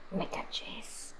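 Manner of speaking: hushed, breathless aside; whispered oh my god. Real, not acted. Streamer recalling the sad animation, whispering in awe. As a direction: whisper it to yourself in disbelief.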